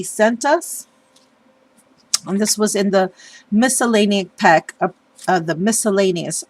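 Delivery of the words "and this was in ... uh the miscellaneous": stuffy, congested head-cold voice; blocked nose. Real, not acted. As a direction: talk through a stuffed-up nose. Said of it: "I sound all stuffed up".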